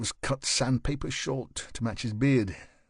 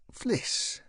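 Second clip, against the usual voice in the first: smiling; 10 semitones higher, 3 dB quieter than usual. A narrator's reading. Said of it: "she smiled".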